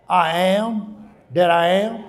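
slow, each word weighed; slow emphatic quote. Shown as a demonstration. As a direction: lay out "I am that I am" slowly. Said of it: "means victory".

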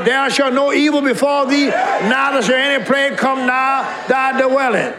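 scripture shouted in a fighting voice. Shown as a demonstration. Preacher shows the church how to fight, fighting voice. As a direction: declare it like a battle cry. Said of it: "That voice".

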